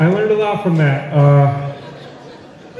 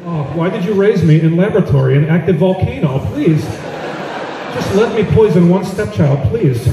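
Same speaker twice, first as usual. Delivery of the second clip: higher, hammed-up villain plea; mock pleading Melania; 3 semitones higher than usual. Melania begging to poison a stepchild, higher whine. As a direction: whine like a spoiled Bond villain. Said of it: "Melania pleading again".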